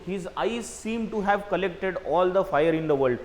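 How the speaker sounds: very slow, measured reading of the sentence; teacher slowly reading an exercise sentence to students; slow read-aloud. Shown as a demonstration. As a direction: read each phrase out as if dictating. Reads the sentence with the answer in.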